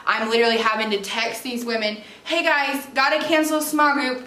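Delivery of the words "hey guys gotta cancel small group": mock cheery. Acted text to group from ambulance.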